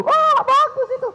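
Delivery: put-on high, gloating kid's voice; gleeful child. Child gloating that mama is embarrassed, high and pleased. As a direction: gloat like a kid who's winning.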